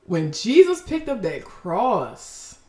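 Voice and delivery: preacher restarting a line slowly for effect; slow, weighty restart. Shown as a demonstration. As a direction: start over slowly and let every word land. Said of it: "Ooh, ooh, hold up".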